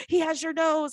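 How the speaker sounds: high-pitched cooing quote; cooing onlooker. Retold or imitated. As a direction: mimic people fussing over a baby. Quotes people admiring the baby.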